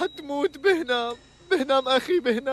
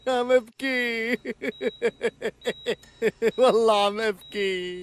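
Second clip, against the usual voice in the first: slow, laughing sobs that sound like giggles; laughing while claiming to cry; slower than usual. Acted. Patient's companion at the bedside, crying that sounds like laughing. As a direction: laugh through it while insisting you are crying. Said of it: "ليش عم تضحك هيك؟".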